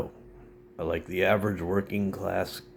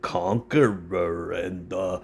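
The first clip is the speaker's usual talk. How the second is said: mock conservative; 3 semitones higher than usual. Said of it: "might rant and rave about".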